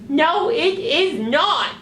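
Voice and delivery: high, slow, firm puppet denial; squeaky puppet putting its foot down; sock puppet voice. Acted. Puppet rebuts.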